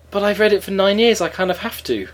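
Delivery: mock protest. Acting own reply to housemate.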